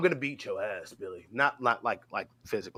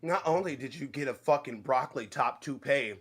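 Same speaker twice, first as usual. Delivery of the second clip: usual speaking voice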